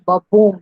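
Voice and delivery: बबूम with the second syllable stressed; iambic sound demo. Shown as a demonstration. Teacher shows students the sound of a syllable pair, iambic stress. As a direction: say बबूम as weak first beat, strong second. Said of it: "I've shown you the sound".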